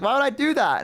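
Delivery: innocent dad. Retold or imitated. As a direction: squeak out the denial like a guilty dad. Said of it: "He's like".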